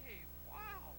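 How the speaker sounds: a talking board, can't believe it; amazed. Acted. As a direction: puppet marvelling that a board can speak. Amazed the board can speak.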